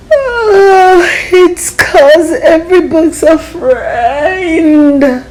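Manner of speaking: put-on high, slow little-boy voice; young boy. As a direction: answer mom as a small tender boy. Sleepy boy answers mom.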